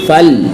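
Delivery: फल ending cleanly on L; no bounce on Laam. Shown as a demonstration. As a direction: let the L of फल rest without an echo. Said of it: "दोबारा नहीं आनी चाहिए". (फल का लाम बिना झटके)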